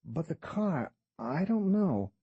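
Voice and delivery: a smirking fixer naming his price; shady tour guide. Acted. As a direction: play the sly, haggling guide. Guide's voice, no speech tag.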